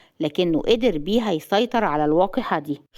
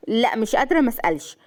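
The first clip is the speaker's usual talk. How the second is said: raised, impatient questioning; impatient curiosity; 4 semitones higher than usual. Acted. Jealous wife unable to hold back her question, mildly agitated. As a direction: give in and demand to know.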